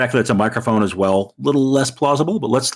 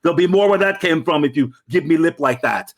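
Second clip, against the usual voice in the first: menacing thug; 5 semitones higher than usual. Retold or imitated. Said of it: "says something horrible".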